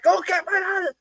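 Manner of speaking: very high mock female voice; imitating girlfriend. Girlfriend sending staff for help, high mock voice. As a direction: put on a squeaky girlfriend demand.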